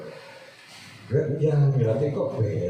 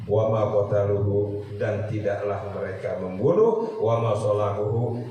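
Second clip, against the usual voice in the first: slow Quran recitation; 2 semitones lower, slower than usual. Acted. Reciting verse with translation.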